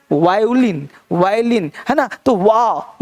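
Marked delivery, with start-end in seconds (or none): 0.1-1.7 वायोलिन with an opening "wa" glide; correct pronunciation. Shown as a demonstration. Teacher shows students the proper reading, modelled word. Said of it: "ये पढ़ना है".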